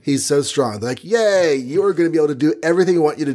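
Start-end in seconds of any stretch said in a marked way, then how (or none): 1.0-3.3 quick high fake glee; mock cheer. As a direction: cheer fast with a villain's false joy. Villains cheer before a betrayal.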